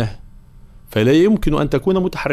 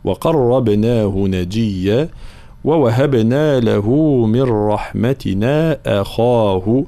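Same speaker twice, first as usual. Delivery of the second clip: slow, measured tajweed chant; teacher's model recitation, slowly intoned; Quran recitation; much slower than usual. Shown as a demonstration. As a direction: recite with long drawn-out vowels.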